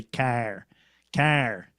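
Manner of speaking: car, car with the Michigan R sounded; Michigan accent. Retold or imitated. Showing the Michigan accent against Boston, R sounded in car. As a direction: say "car" in a really in-your-face Michigan accent. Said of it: "you'll hear the R in the Michigan".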